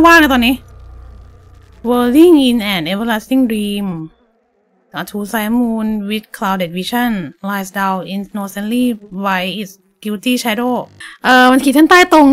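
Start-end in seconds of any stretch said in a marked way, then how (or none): 1.9-10.7 very slow, spelling out an English clue; slowly sounding out the clue; slow read-out. Real, not acted. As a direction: read it word by word. Slowly reads clue aloud.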